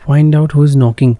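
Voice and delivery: drawn-out, loud reading of the on-screen line; slow loud read. Acted. Gamer reads the game's prompt aloud, slow and loud.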